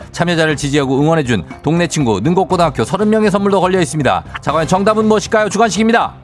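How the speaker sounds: game show host. Acted. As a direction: quiz question read over music. Host reads the quiz question.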